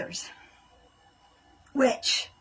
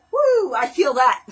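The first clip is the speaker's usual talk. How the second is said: excited; 7 dB louder than usual. Real, not acted. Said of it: "I shouldn't be so excited about feeling pain".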